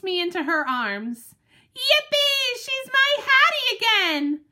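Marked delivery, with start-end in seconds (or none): 1.7-4.4 very high, bright-eyed doggy cheer; overjoyed. Acted. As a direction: squeal with relief and joy. Dog overjoyed Hattie returns.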